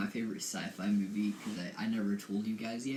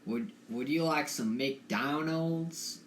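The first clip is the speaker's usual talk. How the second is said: put-on slow southern redneck accent, a bit higher; a slow redneck accent offering food; a tentative redneck accent at the drive-thru; 4 semitones higher, slower than usual. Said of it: "Like, like that?".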